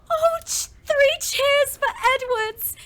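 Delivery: high, loud hip hip hooray; rousing the room to cheer. Acted. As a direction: lead the cheer for the bride-to-be. Leads cheers for engagement.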